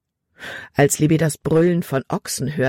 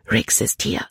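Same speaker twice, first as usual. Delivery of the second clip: hurried warning. A narrator's reading. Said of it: "sagte Libby schnell".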